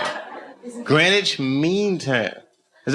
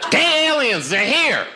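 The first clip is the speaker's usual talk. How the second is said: spooky warning; 14 semitones higher than usual. Pretend. Spooky alien conspiracy bit.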